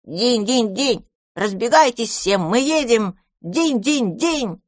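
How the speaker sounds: high, sing-song "динь, динь" like a toy bell; child's bell call; playful bell ringing. Acted. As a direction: ring it out like a game. Dragon child playing horses, ringing.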